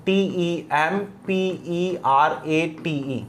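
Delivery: letter by letter, slow and soft; spelling out slowly. Shown as a demonstration. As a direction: spell each letter out for the class. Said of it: "उसका last word है टेम्परेट". (धीरे-धीरे अक्षर बोलते हुए)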